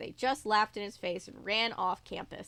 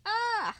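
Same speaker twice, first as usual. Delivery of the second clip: held-back scream; 11 semitones higher, 3 dB louder than usual. Acted. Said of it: "started screaming at the top of her lungs".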